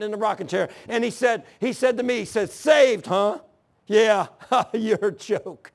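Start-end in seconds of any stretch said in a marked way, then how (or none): 2.5-5.7 imitating mocking laughter. Dad scoffs at his saved son, imitated mockery. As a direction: jeer with a dismissive chuckle, retold. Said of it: "And laughed at me".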